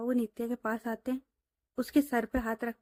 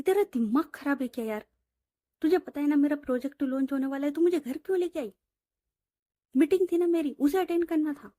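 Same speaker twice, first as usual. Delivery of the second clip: mock angry boss, fast and higher; angry scolding; 3 semitones higher, 3 dB louder, faster than usual. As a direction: snap at her friend for bringing her home. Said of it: "रिया पर गुस्सा करने लगती है". (गुस्से में डांटती हुई)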